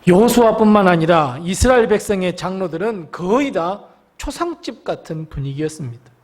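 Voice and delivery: usual speaking voice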